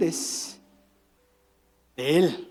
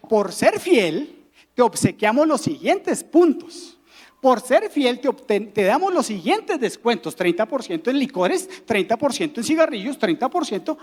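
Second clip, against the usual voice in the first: imitación de anuncio con entonación ondulante; mensaje promocional imitado. Acted. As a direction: leer con cantinela un mensaje de descuentos. (imitación de mensaje publicitario)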